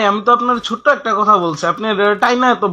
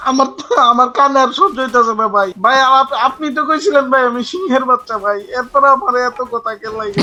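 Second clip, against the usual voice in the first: higher-pitched, worn-out complaint; fed-up begging, voice pushed up high; exasperated pleading; 4 semitones higher than usual. Acted. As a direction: plead like your ears can't take any more. Begs the lecturer to stop.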